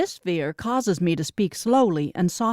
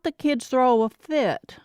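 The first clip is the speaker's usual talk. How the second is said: trailing off slowly, attention drifting away; slowing as if eyes go back to the road; distracted; 5 semitones higher, slower than usual. Sister on the phone while driving, slow and distracted. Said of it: "Her voice sounded strange and distracted".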